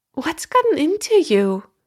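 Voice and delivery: hurt, frightened voice. Narrator reads a woman's line to a man holding her book out of reach, hurt and frightened. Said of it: "She sounded truly hurt, even frightened".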